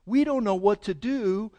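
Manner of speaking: voiced prayer. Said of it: "He says".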